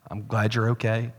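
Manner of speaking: softly imagined tender reply; picture the sympathy he hoped for; expected caring wife. Retold or imitated. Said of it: "I expected her to say".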